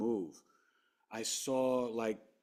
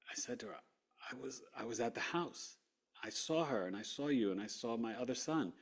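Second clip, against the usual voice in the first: hushed telling; 6 dB quieter than usual. Real, not acted. Quiet revelation.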